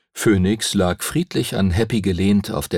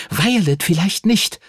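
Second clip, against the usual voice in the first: 1 zischend; 9 semitones higher than usual. A narrator's reading. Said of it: "zischte Lucy".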